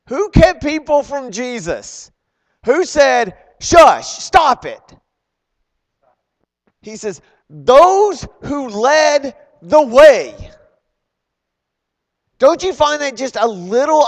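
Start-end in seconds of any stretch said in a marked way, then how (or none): 3.6-4.8 loud, high, slow shout of rebuke; stern shushing. Retold or imitated. Crowd silencing a blind man calling to Jesus, stern shout. 7.5-10.5 loud, high and very slow; emphatic reveal. Retold or imitated. Preacher revealing who did the shushing, slow emphatic shout. Pointed answer read from the verse.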